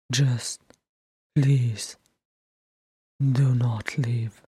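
slow, fading to a whisper; whispered plea. A narrator's reading. Thorin begging Bilbo to stay, halting whispered plea. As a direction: beg haltingly, voice nearly gone.

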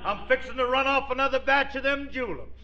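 a Southern gentleman playing the part, calling out; Southern colonel drawl. Phil in his Confederate uniform calls to his wife, in a Southern accent. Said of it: "is really living the part".

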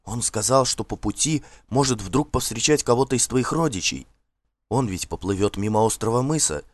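a maid gently coaxing her mistress; служанка Смилла. Acted. Служанка уговаривает госпожу. (голос служанки, чуть выше, вкрадчиво)

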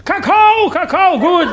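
very high, loud squeal for cocoa; eager patient. Acted. Patient begs the nurse for cocoa, very high eager squeal.

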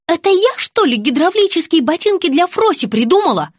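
a fed-up sister yelling; yelling at the boy. A narrator's reading. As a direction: tell the boy off loudly. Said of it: "заорала на него Лена".

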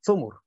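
ثمر said "thumur", short u twice; u after both th and m in ثمر; damma on both letters. Shown as a demonstration. Teacher showing the others' reading, ثمر as "thumur". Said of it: "وقرأ الآخرون بضمهما".

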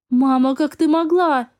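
slow, tearful reproach; sobbing. Acted. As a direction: plead through sobs. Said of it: "схлипывала сестра".

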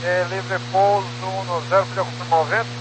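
crackly military radio. Real, not acted. Pilot asks over radio.

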